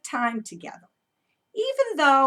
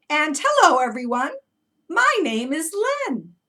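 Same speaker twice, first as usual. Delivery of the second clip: little duck voice; 5 semitones higher, 7 dB louder than usual. Pretend. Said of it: "this little duck is saying".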